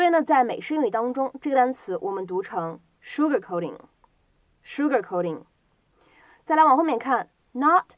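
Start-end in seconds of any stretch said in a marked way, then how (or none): 3.0-5.4 "sugarcoating" said as sugar-coding, American style; American flap T. Shown as a demonstration. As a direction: slowly model "sugarcoating", flapping its T. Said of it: "美式发音当中特有的闪音".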